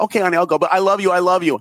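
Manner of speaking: butter her up to get off the phone; sweet placating. Retold or imitated. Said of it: "I'll be like".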